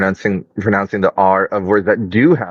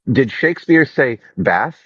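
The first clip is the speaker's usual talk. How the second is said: flat American a in bath; American accent; 5 semitones higher than usual. Shown as a demonstration. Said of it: "like an American".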